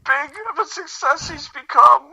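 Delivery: hammed-up emotional breakdown; mock meltdown. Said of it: "another meltdown".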